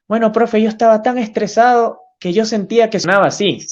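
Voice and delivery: a hint of a kid answering the teacher; student voice.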